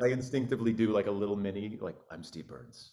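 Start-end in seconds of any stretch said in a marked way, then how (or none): 2.1-2.9 low, breathy, dropped near-whisper. Doing a little mini impression, in a lower Steve Burns voice. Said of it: "Like my voice gets lower whenever I do a Steve voice".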